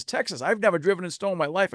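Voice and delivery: put-on retelling in a mild Texas accent. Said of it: "in a Texas accent".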